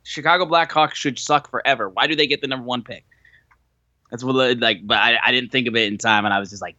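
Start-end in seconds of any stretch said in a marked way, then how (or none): 0.0-3.1 high, put-on complaining voice; hammed-up jealous rant; whiny fan rant. Imagined text to Punk about the draft pick, whiny and high. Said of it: "I would've been like".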